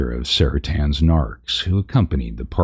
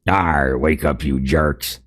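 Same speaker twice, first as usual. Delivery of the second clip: lightly growled pirate-ish brute, slow; narc voice; slower than usual. Acted. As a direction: snarl it like a brutish orc. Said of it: "I gotta do my narc voice".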